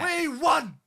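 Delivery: very high, loud triumphant cry; gleeful shout. Real, not acted. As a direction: cheer it out like a champion. Victory repeated, higher.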